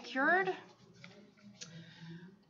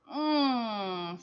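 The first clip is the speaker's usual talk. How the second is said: happy mmm. Acted. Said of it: "said Camilla".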